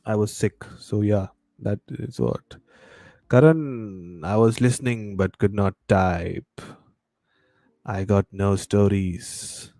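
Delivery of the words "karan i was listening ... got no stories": slow and low. Real, not acted. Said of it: "Why am I talking like that?".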